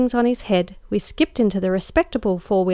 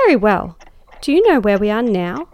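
louder, sharp demand for an answer; 5 dB louder than usual. Acted. Lady pressing the lost cabby, loud and demanding. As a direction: insist on knowing where they are. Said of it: "I demanded".

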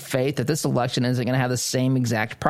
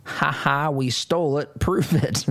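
imitating a smug laughing dare; mock gloating laugh; 2 semitones higher, slower than usual. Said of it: "crossed my arms, laughed, and said".

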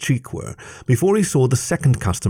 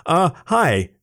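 higher, hesitant little hello; nervous; 8 semitones higher than usual. A narrator's reading. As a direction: greet him shyly and unsure. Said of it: "waved at the bloodhound nervously".

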